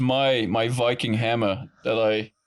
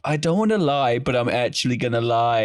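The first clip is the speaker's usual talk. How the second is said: mock Jessica. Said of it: "your inner Jessica coming out".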